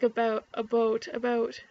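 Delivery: trying out "about" against "a boat"; testing the vowel. Shown as a demonstration. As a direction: say about, then "a boat", then about, comparing. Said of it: "it does kinda sound like".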